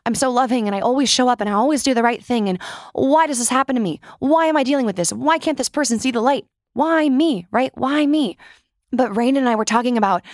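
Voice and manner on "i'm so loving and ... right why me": whiny, rising, hurried self-pity; a light mock whine of why me. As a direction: play the wronged good person, pleading why me. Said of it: "I'm sure you sit there thinking".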